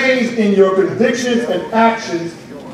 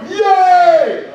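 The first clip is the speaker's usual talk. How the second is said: high, long mock cheer; drawn-out "yay", pitched way up; imitated cheer; 9 semitones higher, 3 dB louder than usual. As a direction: imitate basketball players celebrating. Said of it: "they were going".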